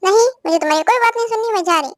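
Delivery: fast, sulky snapping back; angry refusal. Acted. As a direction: brush him off in a quick angry burst. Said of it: "क्यों इतना गुस्सा हो रही हो?".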